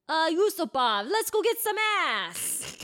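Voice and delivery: hammed-up sleazy Rasputin; drunk come-on. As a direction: slur it like a randy drunk.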